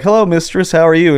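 high, cheery mock hello; lightly voiced sweet greeting; polite greeting. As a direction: play the over-polite visitor. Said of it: "I'd walk in and be like".

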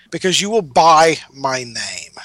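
sly whisper, voicing the artist; whispered aside.

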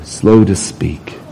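slow to speak breathed out in a whisper; a slow hushed whisper. Shown as a demonstration. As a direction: drop to a slow hush on slow to speak. Preacher stresses key phrase.

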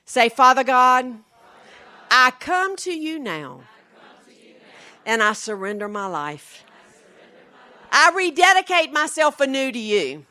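measured prayer in short phrases with long pauses; leading a prayer. Real, not acted. Preacher leading women in the sinner's prayer, solemnly fervent. Leads prayer for congregation to repeat.

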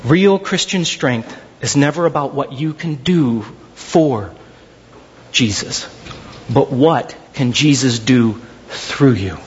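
low, slow, weighty sermon line; slow solemn preaching. Acted. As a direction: lay it down slowly like a truth.

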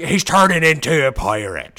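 hushed whisper. Real, not acted. Joking with cohost, conspiratorial whisper. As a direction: whisper it like a secret.

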